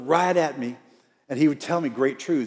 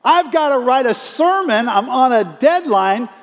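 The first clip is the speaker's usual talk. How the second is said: loud, high, drawn-out mock protest; exasperated outburst; 10 semitones higher, 7 dB louder, slower than usual. Preacher confessing his first thought on being interrupted, hammed-up exasperation. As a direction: whine it at full volume, hammed-up and put-upon.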